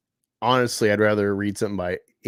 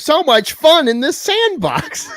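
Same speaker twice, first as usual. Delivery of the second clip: sarcastic; 8 dB louder than usual. Real, not acted. Sarcastic reply, laughing.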